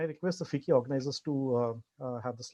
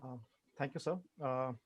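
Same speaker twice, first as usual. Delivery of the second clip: barely audible; 8 dB quieter than usual. Real, not acted. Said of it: "The voice is very faint".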